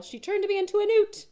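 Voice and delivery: Monty Python quote. Retold or imitated.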